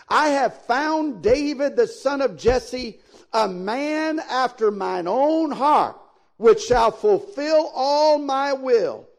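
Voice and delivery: measured, emphatic Bible reading; scripture reading. Acted. Reads the Bible verse aloud.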